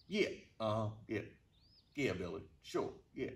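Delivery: dryly unconvinced, voice dropped; sarcastic agreement. Retold or imitated. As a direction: brush off a friend's excuse. Sceptical retort to friend's excuse.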